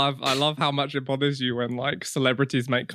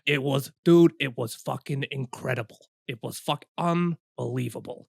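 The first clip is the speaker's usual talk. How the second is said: mild Bill Burr voice; 3 semitones lower, 3 dB quieter than usual. Retold or imitated. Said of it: "Bill Burr impression".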